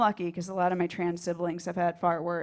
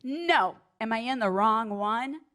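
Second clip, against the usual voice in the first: raised pitch, theatrical double-take; real dramatic; slower than usual. Acted. Woman checks the women's sign, dramatically acted alarm. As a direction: overplay the alarmed question. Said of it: "real dramatically and goes".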